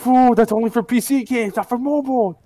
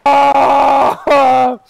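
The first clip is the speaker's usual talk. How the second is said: playful yelling; 3 semitones higher, 4 dB louder than usual. Acted. Chasing teammate, yelling.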